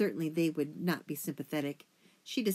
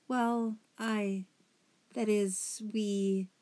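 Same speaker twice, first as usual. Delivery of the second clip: higher, halting, evasive stammer; hesitant faltering; 4 semitones higher, much slower than usual. Acted. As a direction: falter while searching for an excuse. Daughter falters under father's questioning.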